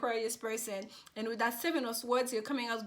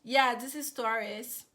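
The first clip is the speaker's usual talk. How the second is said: dismissive intro; 6 dB louder, slower than usual. Retold or imitated. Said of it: "they'd be like".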